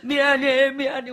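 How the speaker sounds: lightly imitated blubbering; mock tearful apology. Husband showily repenting to his wife, mock tearful. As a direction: plead as if bawling. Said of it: "막 울어 제키는 거예요".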